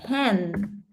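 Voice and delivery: "hen" with a breathy Spanish h sound; Spanish ending. Shown as a demonstration. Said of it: "in Spanish we have words ending".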